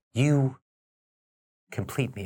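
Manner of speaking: "you complete me" split by long, loaded pregnant pause. Discussing a line delivery that emphasizes words, long pause inside you complete me. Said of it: "again with the pregnant pause. See the time in between?".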